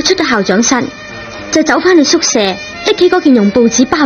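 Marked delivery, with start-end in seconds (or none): none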